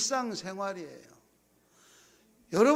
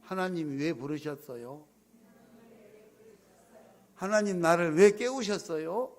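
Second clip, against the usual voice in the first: model prayer. Shown as a demonstration. Pastor leads the congregation to repeat: gentle model prayer. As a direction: say it humbly for them to repeat. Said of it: "따라서 합니다".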